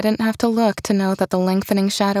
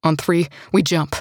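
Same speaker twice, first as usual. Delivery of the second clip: gritted teeth; 4 semitones lower than usual. Acted. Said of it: "panted between gritted teeth".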